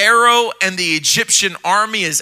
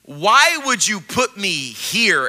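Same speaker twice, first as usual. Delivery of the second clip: frustrated prayer; 3 dB quieter than usual. Acted. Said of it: "he's getting a little frustrated".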